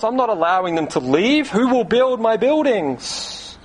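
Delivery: high, indignant disbelief; mock-outraged Pharaoh; astonished Pharaoh. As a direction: scoff like an affronted king. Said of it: "picture the astonished look on Pharaoh's face".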